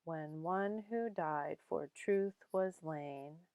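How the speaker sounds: "When one who died for truth was lain" slow, beats on ONE, DIED, TRUTH, LAIN; measured short-long beat through "When one who died for truth was lain"; iambic stress. Shown as a demonstration. Teacher showing the meter, slow iambic "When one who died for truth was lain". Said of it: "that's iambic".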